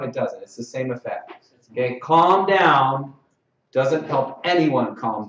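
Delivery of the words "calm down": loud, raised mock order; forceful calming command. Shown as a demonstration. Showing what doesn't help anyone, loud bossy command. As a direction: push it out loudly at them. Quotes the phrase to avoid.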